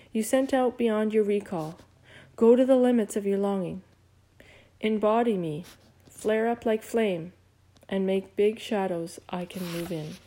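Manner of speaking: lightly declaimed poem reading; a hint of earnest recital; reciting poetry. A narrator's reading. Tootie recites Rilke to the squirrel, lightly declaimed. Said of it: "This is Rilke".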